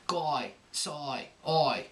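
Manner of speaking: oi for long i, Cockney; Cockney oi vowel. Shown as a demonstration. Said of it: "teachers say that it should be like oi".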